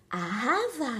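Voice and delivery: playful Hawaiian-style pronunciation; mock Hawaiian accent. Shown as a demonstration. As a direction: put on a Hawaiian lilt for fun. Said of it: "j'ai envie de le prononcer à la hawaïenne". (à la hawaïenne, pour rire)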